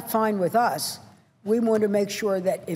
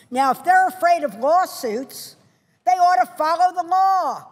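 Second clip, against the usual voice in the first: fiery warning; 5 semitones higher than usual. Real, not acted. Senator warning employers who retaliate.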